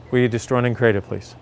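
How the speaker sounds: quick, falling incantation said from memory; ritual clearing statement. Acted. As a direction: run through the clearing like a well-worn chant. Recites a set verbal clearing formula.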